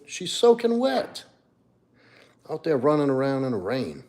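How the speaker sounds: put-on baby talk to the dog. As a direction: coo it like talking to a puppy.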